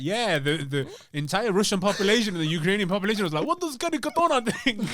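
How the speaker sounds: put-on high, fast hammy Russian accent; bad Russian accent. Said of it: "very bad Ukrainian four slash Russian accent".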